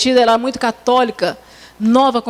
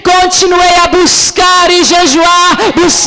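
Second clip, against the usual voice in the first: impassioned preaching; 3 semitones higher, 5 dB louder, slower than usual. Real, not acted. Preacher urges sisters to rise like Nehemiah, building impassioned preaching. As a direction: drive each word home like a revival preacher.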